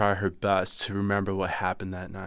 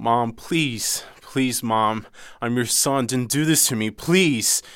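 desperate pleading; 3 semitones higher, 3 dB louder, slower than usual. Retold or imitated. Begging mother during the burning.

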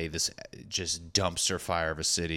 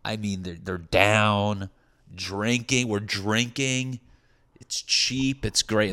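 bar-dude hype; 2 semitones higher, 3 dB louder, slower than usual. Retold or imitated. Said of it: "this is what they were telling dudes at the bar".

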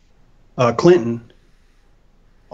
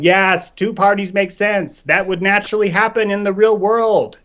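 mock sheep voice; 5 semitones higher than usual. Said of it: "walking around like sheep going".

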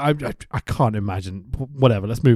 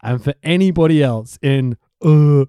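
put-on half-done accent, building to loud, stretched letters; Scott Hall; 6 dB louder than usual. Wrestler challenging anybody else in W C W, half-done accent. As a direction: draw out the initials in the wrestler's accent. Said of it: "I'm half doing the accent".

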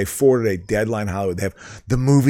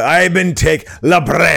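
hammed-up Scottish or Irish brogue; loose, pirate-like Scottish lilt; Scottish accent; 4 semitones higher, 4 dB louder, slower than usual. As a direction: declaim it in a mock Scottish accent. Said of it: "it's like a Scotsman".

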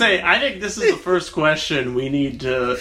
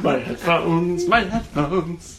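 slow mock lament; much slower than usual. Mocking Alex's headphone lament.

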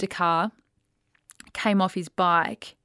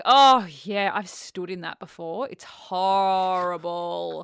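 dismissive; 5 dB louder, slower than usual. Retold or imitated. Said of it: "That's the way I was talking".

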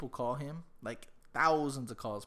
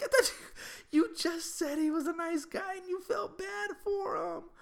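high, raised-voice protest; mock incredulous retort; 3 dB louder than usual. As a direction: call out her turnaround in exaggerated disbelief. Dad retorts to panicking daughter.

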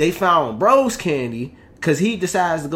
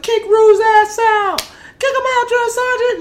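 recruits shouting; 7 dB louder than usual. Retold or imitated. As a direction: jeer like a crowd of recruits.

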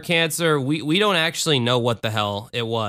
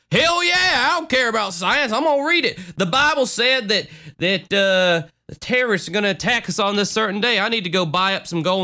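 mock redneck; 7 semitones higher than usual. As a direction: play a gun-loving doomsday prepper, way up in pitch. Mock redneck doomsday prepper rant.

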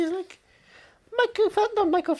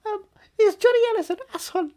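speaking to Siri; 6 semitones higher, 3 dB louder than usual. Shown as a demonstration. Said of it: "If I can speak".

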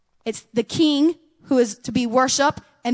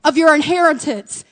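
loud command to go take the land; commanding call; 3 semitones higher, 6 dB louder than usual. Retold or imitated. Preacher voicing God's command to Israel, loud. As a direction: call out like God sending them in. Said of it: "he said".

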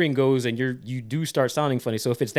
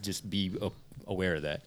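soft, fast low aside; hushed mock warning; quiet warning; 7 semitones lower, 8 dB quieter than usual.

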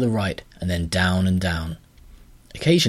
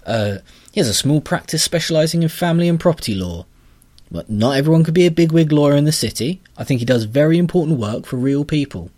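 louder, huffy creature voice; offended grubber; 7 semitones higher, 6 dB louder than usual. Acted. Grubber defending uncle.

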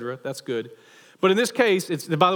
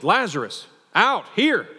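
yelled command; 2 semitones higher, slower than usual. Acted. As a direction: call it out across the tomb. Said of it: "just yells it".

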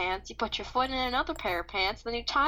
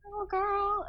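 dramatic announcer; 10 semitones higher, slower than usual. Pretend. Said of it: "I say that, as I leave".

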